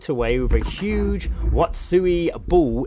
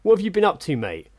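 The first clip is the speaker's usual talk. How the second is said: imitating a chatty bloke on his mobile, mate on every line; overheard bloke on the phone; 5 semitones higher than usual. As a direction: mimic a man phoning a friend, tacking mate onto everything. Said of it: "it's to do with the fact that he keeps saying, "Mate".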